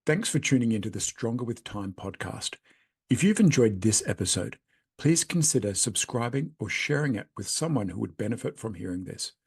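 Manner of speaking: measured, scripted host sign-off; podcast outro read. Real, not acted. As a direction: read the closing message to listeners, neatly phrased.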